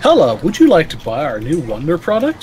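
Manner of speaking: salesman pitch. Pretend. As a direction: sell it like a peddler. Playing a salesman at door.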